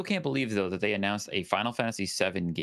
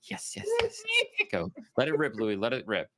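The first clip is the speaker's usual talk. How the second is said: eager; 6 semitones higher than usual. Retold or imitated. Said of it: "you're probably sitting there like".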